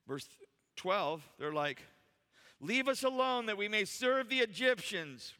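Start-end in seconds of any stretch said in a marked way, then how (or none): 2.6-5.3 raised, mock complaining voice; hammed-up, high-pitched protest; crazy complaining Israelites. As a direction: play the panicked crowd protesting. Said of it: "Look how crazy they are".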